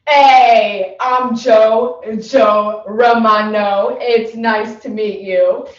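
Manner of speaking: booming self-introduction, slow on the name; loud tough-guy intro. Real, not acted. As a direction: announce yourself like a big shot. Tough guy actor introduces himself.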